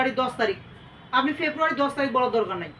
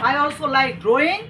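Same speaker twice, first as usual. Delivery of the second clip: slow dictation; much slower than usual. Shown as a demonstration. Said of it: "teacher dictating a model sentence".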